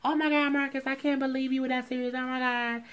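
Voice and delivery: high, teary, imitating her emotion; mock teary gush. Touched by the ring, she mock-gushes high and teary. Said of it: "she got all teary-eyed".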